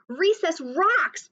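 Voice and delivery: bellowed. A narrator's reading. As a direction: stretch it out in a big happy roar. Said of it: "bellowed Clark the Shark".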